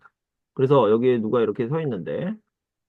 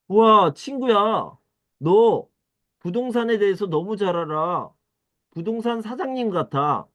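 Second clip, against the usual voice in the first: amazed praise; 7 semitones higher than usual. Acted. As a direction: marvel at the friend's expertise. Amazed at friend's knowledge. (감탄하며 크고 느리게)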